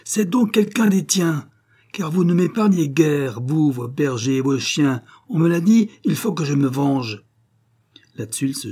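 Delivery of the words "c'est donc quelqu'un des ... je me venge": high, loud angry outburst; furious wolf. A narrator's reading. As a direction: cry out in mounting fury as the wolf. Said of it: "entrant en fureur, Sébastien s'écria".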